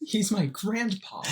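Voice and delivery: high laughing grandpa line; laughing meme quote. Retold or imitated.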